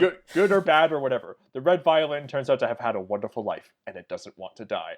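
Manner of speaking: a hint of a French accent, quoting the director; half-hearted French accent, read aloud like an interview; lightly put-on French accent. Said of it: "I don't know what accent I'm doing".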